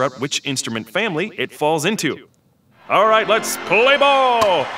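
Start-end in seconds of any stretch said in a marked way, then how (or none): 2.9-4.7 excited. Acted. Machine host kicks off the game.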